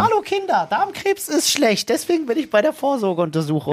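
high, goofy hand puppet voice; chirpy puppet talking to kids; goofy sock puppet. Pretend. Hand puppet talks to children.

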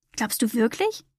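softly hopeful, rising at the end; hopeful question. A narrator's reading. Humboldt asking the whale about square stones, hopeful. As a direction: ask it softly, daring to hope. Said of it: "fragte Humboldt voller Hoffnung".

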